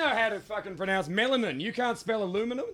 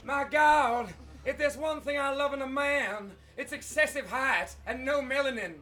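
Lauren Bacall; 3 semitones higher than usual. Pretend. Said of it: "I'm Lauren Bacall".

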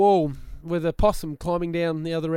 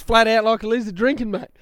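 ocker Aussie; 3 semitones higher than usual. Retold or imitated. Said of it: "you sound like Carl Barron then".

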